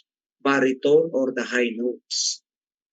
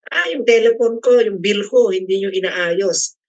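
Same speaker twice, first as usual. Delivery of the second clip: complaining caller, higher and louder, slowing at the end; irate caller; 6 semitones higher, 4 dB louder than usual. Retold or imitated. Teacher imitates an irate customer calling the telco, loud complaint. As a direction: complain loudly about the unfixed phone bill.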